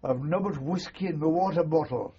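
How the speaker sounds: a loud voiced stage whisper in a Scottish jock accent. Medical sergeant confiding to the officer, loud Scottish stage whisper. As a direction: half-whisper it, but loud enough to carry, Scottish. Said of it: "whispered in a loud voice".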